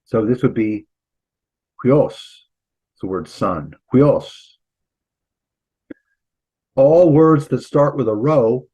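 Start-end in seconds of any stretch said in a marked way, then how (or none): 1.8-2.1 "huios" with an h in front; rough-breathing pronunciation. Shown as a demonstration. Teacher showing students the rough breathing mark, demonstrated pronunciation. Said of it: "put the H in front of it". 3.9-4.3 "Huios" said louder with an h in front; rough-breathing pronunciation. Shown as a demonstration. Teacher repeating the Greek word for sun, emphatic demonstrated pronunciation. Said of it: "put the H in front of it".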